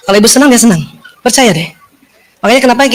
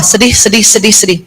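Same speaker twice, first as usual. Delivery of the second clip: SEDIH repeated lower, sinking step by step; descending repetition; 5 semitones lower than usual. Shown as a demonstration. Showing the signal travelling down, "sedih" repeated low. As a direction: let each "sedih" travel downward. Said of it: "dia turun ke bawah".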